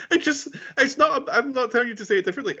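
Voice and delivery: high, fast laughing talk; giggling through the words. Real, not acted. Laughing while teasing friend.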